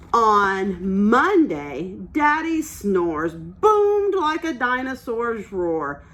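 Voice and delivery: slow, expressive storybook reading; picture book read-aloud; reading to children. Acted. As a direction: read it like story time for little ones. Teacher reads picture book aloud.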